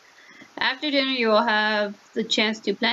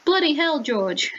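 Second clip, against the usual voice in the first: mock-British outburst, high then dropping; British accent; 5 semitones higher than usual. Heir exclaiming to gardener George, British accent. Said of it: "read it in a British accent".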